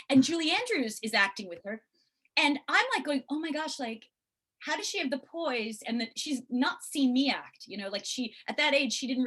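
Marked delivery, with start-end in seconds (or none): 3.3-5.8 amazed. Retold or imitated. Retold amazement at daughter's acting.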